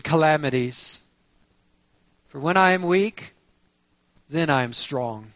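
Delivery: measured, solemn Bible reading with deliberate pauses; scripture reading. Acted. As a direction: read scripture out to the congregation. Reads scripture aloud to congregation.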